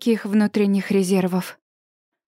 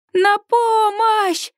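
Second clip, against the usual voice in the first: higher, slow, drawn-out cry for help; desperate near-shriek, much higher, drawn out; 9 semitones higher, much slower than usual. A narrator's reading. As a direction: scream it out in despair. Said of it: "в отчаянии почти визжу я".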